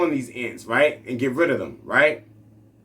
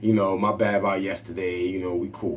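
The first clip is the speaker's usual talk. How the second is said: making peace; 7 semitones lower, 3 dB quieter than usual. Retold or imitated. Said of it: "And so I say out loud".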